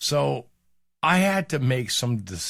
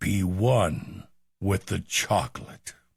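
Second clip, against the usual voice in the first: deep, dramatic, epic movie-trailer narrator voice; 4 semitones lower than usual. While someone describes looking at a chocolate, a line in movie trailer voice. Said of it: "I had to do the movie trailer voice".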